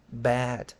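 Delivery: sad intonation. Shown as a demonstration. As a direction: sound like you're feeling bad. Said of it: "la entonación tiene que transmitir igual eso".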